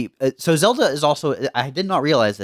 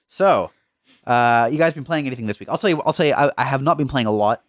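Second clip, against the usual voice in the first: usual speaking voice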